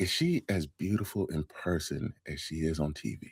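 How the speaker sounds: very quiet, very slow, drawn-out hushed whisper. Asking a question that a wife downstairs might overhear: whispering. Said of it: "I need to whisper this".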